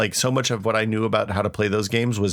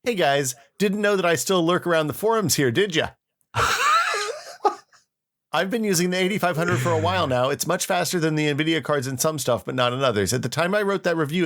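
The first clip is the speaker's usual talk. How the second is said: cringing mock reading; 5 semitones higher than usual. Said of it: "I apologize in advance".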